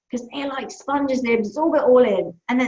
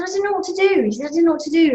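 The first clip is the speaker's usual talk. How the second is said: put-on child's voice; 6 semitones higher, faster than usual.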